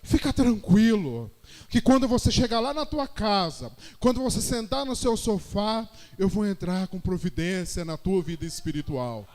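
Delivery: low, measured voice of reassurance; retold words of divine comfort; consoling. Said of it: "tivesse me consolando. Ele dizia assim".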